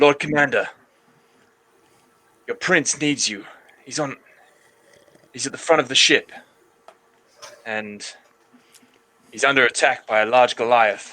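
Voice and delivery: huffy, annoyed soldier character voice. Narrator voicing a copper dragonborn who arrives in a huff. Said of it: "he slides around the corner and in a huff".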